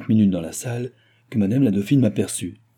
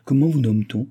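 higher, gracious questioning lilt; charming voice; 5 semitones higher, 4 dB louder than usual. A narrator's reading. Dauphine asking the young officer's name, charmingly. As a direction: ask with courtly charm. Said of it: "d'une voix charmante".

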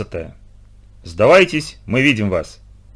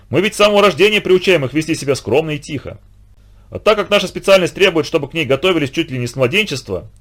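хвастливый бандит, голос чуть выше; с гордостью расхваливает свою затею; самодовольный бандит; 3 semitones higher than usual. Acted. Хилый хвастливо рассказывает о детях. (бандит хвастается перед сыщиком, самодовольно)

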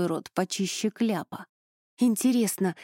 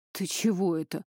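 frightened; 2 semitones lower than usual. A narrator's reading. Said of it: "спросил испуганно".

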